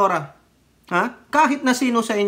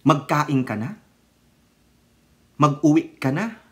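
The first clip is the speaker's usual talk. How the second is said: Mindanao Tagalog; 5 semitones lower than usual. Retold or imitated. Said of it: "Ganun sila, eh".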